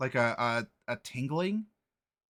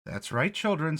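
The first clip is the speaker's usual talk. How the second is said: headmistress voice; 4 semitones higher than usual. Acted. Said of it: "says the headmistress".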